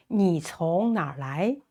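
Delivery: 你从哪儿来 spaced out word by word; careful model. Shown as a demonstration. Teacher modelling where are you from, carefully spaced. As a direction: model the question carefully for learners.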